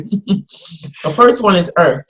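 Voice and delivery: talking around ice in mouth. Real, not acted. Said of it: "Oh, you got ice in your mouth?".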